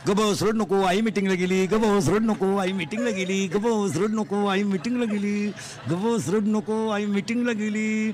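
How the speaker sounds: put-on rock the baby with your voice, slowing down; soothing a crying baby. Shankar soothing crying child.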